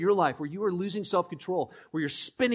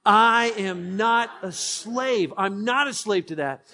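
louder, slow and firm; with conviction; 2 semitones higher, 5 dB louder, slower than usual. Shown as a demonstration. Pastor leading the church to repeat with conviction. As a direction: declare it like you mean it. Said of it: "With conviction now".

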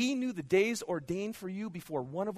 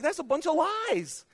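usual speaking voice

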